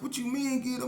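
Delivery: high, loud disbelieving retort; incredulous protest. Retold or imitated. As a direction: challenge him, outraged he'd dare. Knife pulled, he protests.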